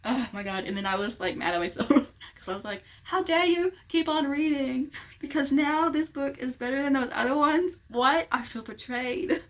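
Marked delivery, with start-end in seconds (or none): 3.0-9.4 high, loud, slowed hammed-up outrage; mock betrayal. Reader scolding herself for loving the sequel, mock outraged. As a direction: scold yourself like a jilted lover. Mad at herself for liking book.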